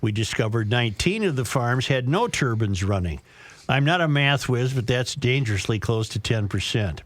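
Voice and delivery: measured radio read of a listener letter; letter read on air; reading a letter aloud. Acted. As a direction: read it out to the audience, phrase by phrase.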